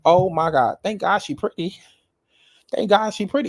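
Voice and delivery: building mock amazement; mock astonishment. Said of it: "I was like".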